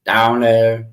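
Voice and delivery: put-on lightly copied country accent; imitated country accent. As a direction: echo of the backwoods Arkansas accent. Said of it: "it just reminded me of that accent".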